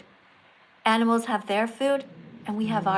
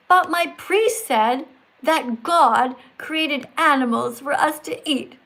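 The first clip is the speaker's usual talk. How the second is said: lightly acted objection read out slowly; slow, deliberate read-aloud; carnist's quote; slower than usual. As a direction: read it slowly as a questioning meat-eater.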